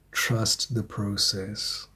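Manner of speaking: slow, soft reassurance; calm and slow. Real, not acted. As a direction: lay it down gently like advice. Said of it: "But Spirit is saying".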